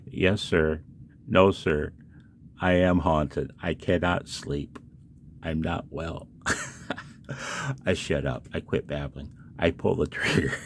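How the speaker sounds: lightly put-on weary voice, only a shade off his own; a hint of Philippe, haunted and sleepless. Tinkerer at 3 AM slipping into a mild Philippe voice. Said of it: "Why do I talk like that? It's Philippe".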